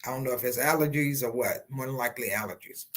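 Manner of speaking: one-sided swollen lip; fat lip. Real, not acted. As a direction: speak with a puffy lip on one side. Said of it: "forgive me for my one-sided lip".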